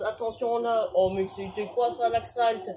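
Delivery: loud, excited shout at the play; a real burst of shouting at the screen. Real, not acted. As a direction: yell out the near miss. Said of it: "j'ai peut-être crié un peu trop fort".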